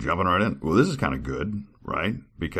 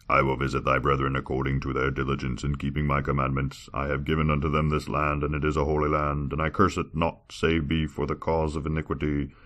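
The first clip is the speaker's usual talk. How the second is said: lightly lowered, steady God voice. Acted. God warning of sorrow upon sinners, grave. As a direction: speak as God, measured and grave. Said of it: "I didn't know to do that God voice for so long".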